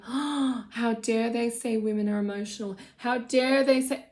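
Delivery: mock-offended gasp and protest. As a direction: imitate someone taking offence, mildly hammed-up. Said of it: "people get so offended and go".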